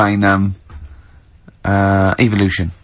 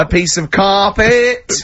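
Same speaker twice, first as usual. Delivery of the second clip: mock prize announcer; 6 semitones higher, slower than usual.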